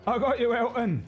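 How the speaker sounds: Aaron. Acted. GM voicing Aaron.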